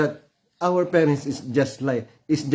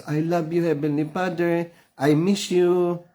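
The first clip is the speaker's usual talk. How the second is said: put-on childlike prayer; 4 semitones higher than usual. Shown as a demonstration. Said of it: "The moment we pronounce".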